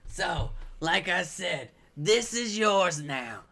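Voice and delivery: slow, drawn-out slimy voice; very slow slimy snail voice. Acted. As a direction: draw the words out like a slug. Continues slug voice.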